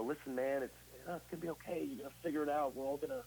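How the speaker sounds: mock coddling. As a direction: coo it like a pushover friend. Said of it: "There was no".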